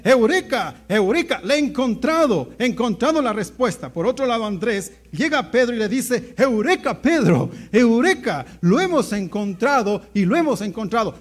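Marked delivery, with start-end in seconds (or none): 0.0-3.9 lightly acted thrill of discovery; excited. Scientist finally finds his answer, mildly acted excitement. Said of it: "emocionado dice". 6.4-11.1 lightly acted urgent good news; excited announcement. Andrés tells Pedro of the Messiah, acted excitement.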